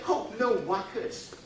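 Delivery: put-on slow New Zealand accent, "no workers" for "no worries". New Zealanders brushing off a problem, slow New Zealand accent. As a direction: drawl "no workers" the Kiwi way. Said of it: "they would say".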